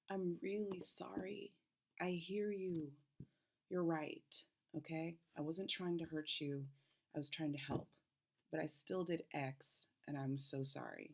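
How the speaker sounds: mean every word of the sorry; sincere apology. Shown as a demonstration. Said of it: "Here's version two".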